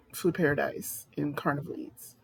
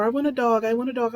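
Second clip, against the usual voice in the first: whiny begging; 5 semitones higher, 3 dB louder, faster than usual. Retold or imitated. Mocking people who beg for a dog.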